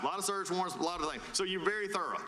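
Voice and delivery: spoon-feed it in short phrases; deliberate, piece-by-piece summary; slow walk-through. Real, not acted. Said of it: "we'll walk this really slow".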